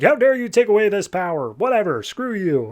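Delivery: high-pitched imitated outrage; mock pissed off. Roz going after Jason over lost power, mock pissed off. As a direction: act out an indignant villain, lightly. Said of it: "Roz is all pissed off".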